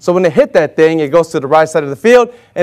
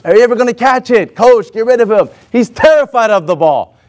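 raised-pitch retold griping; mildly acted fuss; making a stink; 4 semitones higher than usual. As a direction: complain to the coach, imitating an annoyed teammate. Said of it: "Oscar was making a big stink".

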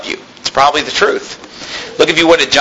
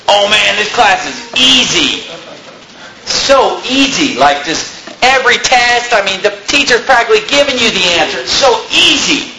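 lazy student; 4 semitones higher than usual. Retold or imitated. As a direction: mimic a kid bragging about an easy class. Preacher mimics kids about easy class.

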